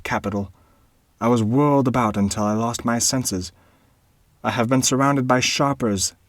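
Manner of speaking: put-on a desperate young baron begging his tutor; earnest young baron. A narrator's reading. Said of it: "exclaimed the young Baron earnestly".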